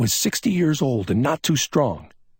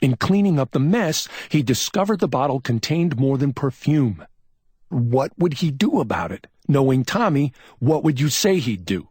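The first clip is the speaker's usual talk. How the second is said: higher, curt and forceful; brusque; 9 semitones higher, 4 dB louder than usual. A narrator's reading. McMain reconstructs what Tommy did, brusque. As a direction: lay it out briskly. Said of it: "McMain's voice was brusque".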